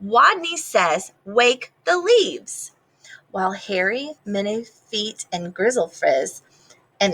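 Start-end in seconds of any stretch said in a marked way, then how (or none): 0.0-2.7 repeated command. Acted. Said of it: "Wadney's voice was stronger".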